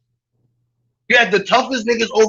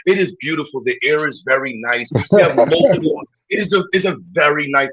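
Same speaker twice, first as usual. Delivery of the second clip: lower, gushing brochure voice; lower, hushed mock-refined praise of the neighborhood; mock tour-guide praise; 4 semitones lower than usual. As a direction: sell the neighborhood like a smooth realtor. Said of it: "this is how you talk about Park Slope".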